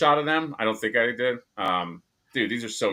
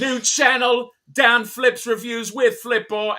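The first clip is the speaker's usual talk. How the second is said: high, slow announcer voice; 10 semitones higher, 4 dB louder than usual. Pretend. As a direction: sell it like a channel trailer. Mock channel announcement.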